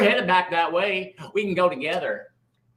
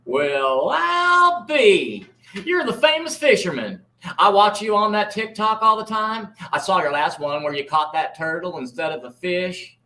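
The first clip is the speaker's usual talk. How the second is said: folksy Marty. Acted. Marty character voice.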